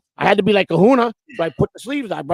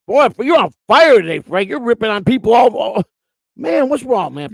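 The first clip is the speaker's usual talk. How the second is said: mock scolding exclamation; 6 semitones higher than usual. Scolding a chatter in mock alarm.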